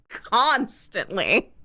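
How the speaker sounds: slow, laughing through the word Constantly; laughing repeat. Real, not acted. To chat, about the narrator's habit: laughing disbelief.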